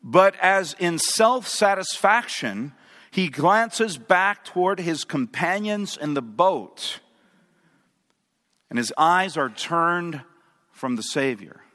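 slow, weighty pulpit reading; dramatic devotional reading. A narrator's reading. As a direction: read it slowly, letting each phrase land. Reads a book passage aloud.

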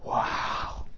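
breathy, hushed little gasp of wonder; a child's awed, unvoiced wow; mock hushed wow. Voicing child's wonder in story.

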